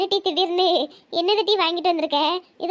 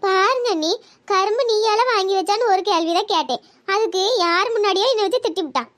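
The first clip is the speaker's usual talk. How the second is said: pretend anger; 4 semitones higher than usual. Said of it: "சும்மா கோவப்படுற மாதிரி நடிச்சேன்".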